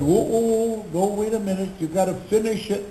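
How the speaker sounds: imitated "hold on" interruption; halting objection. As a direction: put the brakes on someone. Retelling the tax man's objection.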